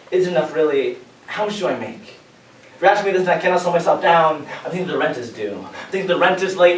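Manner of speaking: earnest spoken-word recitation; spoken-word poem. Acted. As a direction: perform it to the audience like a confession. Performs second spoken-word poem.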